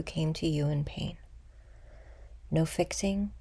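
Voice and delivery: unhurried meditation guide, long pauses between phrases; guided meditation. Acted. Guide leading listeners to meet an old wound with compassion, guided meditation. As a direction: guide them gently inward, letting phrases settle.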